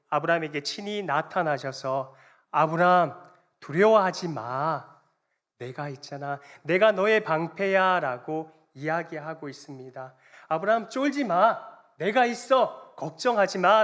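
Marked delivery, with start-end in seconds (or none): 2.5-8.0 emphatic reassurance. Acted. God appearing to frightened Abraham, loud emphatic reassurance. 10.5-13.8 loud and high, rallying; urgent reassurance. Acted. God telling trembling Abraham not to worry, loud urgent reassurance.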